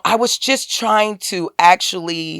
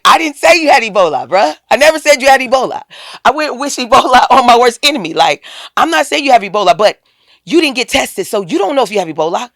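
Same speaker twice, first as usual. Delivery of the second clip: a louder, higher, fast retold insistence; heated insistence; 5 semitones higher, 4 dB louder, faster than usual. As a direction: argue it back fast, heated. Arguing back at him on phone.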